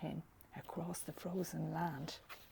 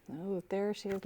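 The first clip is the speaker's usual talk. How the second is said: plain reading voice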